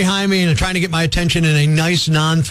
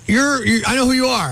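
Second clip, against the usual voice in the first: higher, halting fan recognition; mildly awed stammer, retold; starry-eyed; 4 semitones higher than usual. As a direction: imitate a lightly starstruck fan. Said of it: "kinda, like, starry-eyed".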